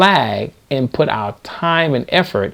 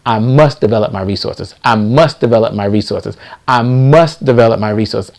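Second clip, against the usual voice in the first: affirmation; 3 semitones lower than usual. Shown as a demonstration. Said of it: "This is something I want you to tell yourself seven times a day".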